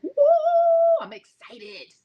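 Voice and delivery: understated excitement. Retold or imitated. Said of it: "my excitement today is like".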